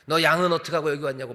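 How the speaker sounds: quick mock telling-off; scolding older brother. Older brother telling off the youngest at the battlefield, scolding. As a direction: scold a kid brother in a rush. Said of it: "막 야단을 쳐요".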